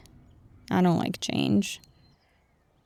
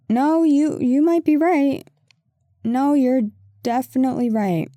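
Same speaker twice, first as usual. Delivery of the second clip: flustered admission; 4 semitones higher, 3 dB louder than usual. Acted. Sheepish admission of being wrong.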